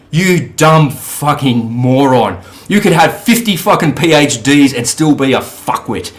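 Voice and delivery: slow, contemptuous insult. Retold or imitated. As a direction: drag out every word of the insult. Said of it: "go back to that guy and say".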